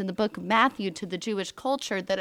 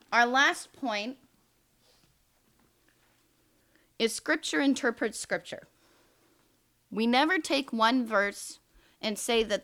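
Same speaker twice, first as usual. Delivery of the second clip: teacher voice; 4 semitones higher than usual. Real, not acted. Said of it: "this is my teacher voice".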